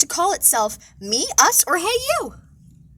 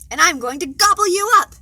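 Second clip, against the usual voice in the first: dragon threat; 4 semitones higher, 6 dB louder than usual. Acted.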